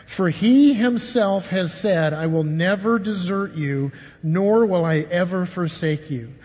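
slow, deliberate, every word weighed; slow scripture reading. Shown as a demonstration. Pastor leading the church through the verse, slow and deliberate. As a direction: read the verse slowly so they can follow. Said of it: "Read that with me".

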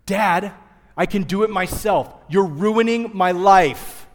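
put-on loud, high two-year-old protest, dragged out; whiny toddler. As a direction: play a bratty toddler wailing at dad. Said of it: "What do I get?".

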